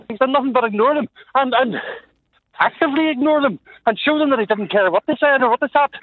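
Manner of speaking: breathless, talking while walking; out of breath. Real, not acted. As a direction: speak short of breath mid-walk. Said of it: "Sorry, I'm out of breath".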